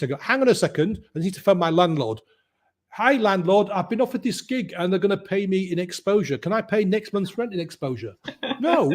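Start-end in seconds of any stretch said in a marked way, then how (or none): 0.2-8.2 facetious. Retold or imitated. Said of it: "I'd be really facetious". 8.6-8.9 curt, much higher "No."; the landlord shuts it down in one word; mock landlord refusing flatly; landlord's flat no. Landlord refusing rent in exposure.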